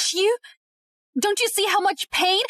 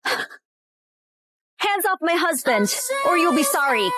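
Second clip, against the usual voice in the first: slow threat; 4 semitones lower, slower than usual. Acted. Threatening a rival.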